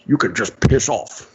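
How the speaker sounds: dismissive mock Scottish actor; Sean Connery. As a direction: send them away in a lightly put-on Scottish accent. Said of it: "I'm Sean Connery".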